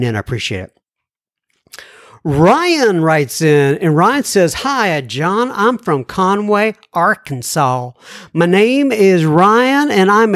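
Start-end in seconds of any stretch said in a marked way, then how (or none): 4.5-10.3 slow, lightly put-on Southern drawl for a listener's letter; a mild imitation of an Arkansas drawl, stretched out slow. Reading Ryan's letter aloud as a teasing Southern drawl. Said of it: "he probably doesn't talk like that at all".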